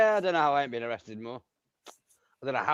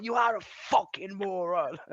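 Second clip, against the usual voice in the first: deadpan insult; 8 semitones higher, 4 dB quieter, slower than usual. Retold or imitated. Retold insult to the cop.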